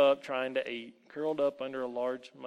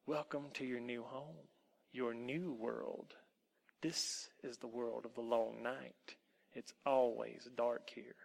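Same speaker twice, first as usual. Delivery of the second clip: wolf woman; 6 dB quieter than usual. Acted. Wolf woman's speech to Tom.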